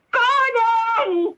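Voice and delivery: mother calling son downstairs, high urgent call; panicked call. Acted. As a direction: yell for your son in panic.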